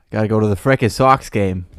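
light Boston accent, dropped r's. Shown as a demonstration. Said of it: "that's my Boston accent".

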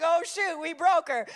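put-on high, loud kids' panic; mock alarm. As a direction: imitate kids suddenly realizing the damage.

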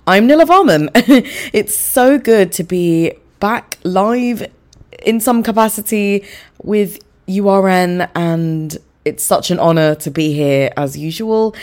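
loud, shaky voice with a sore throat; a wobbly, unsteady voice. Real, not acted. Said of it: "if I sound a bit shaky".

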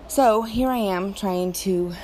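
winded, breathing hard. Real, not acted. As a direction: talk between breaths. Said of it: "sorry, I'm a little out of breath".

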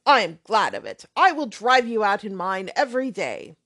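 put-on brash, offhand young man swearing lightly; lightly voiced loud young rake; blustering braggart.

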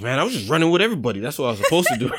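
fast, laughing retold plea to the police; laughing retelling. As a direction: plead innocence through laughter. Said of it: "I was like".

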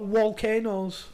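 "volcanoes" said "wolcanoes", W sound for the V. Retold or imitated. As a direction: swap the V in "volcanoes" for a W. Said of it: "he can't really pronounce his V's".

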